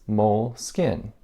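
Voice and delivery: moleskin as two syllables, "mole-skin"; short i, no middle vowel in moleskin; English pronunciation. Retold or imitated. Quoting the CEO on English usage, moleskin said "mole-skin". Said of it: "So the English pronunciation is".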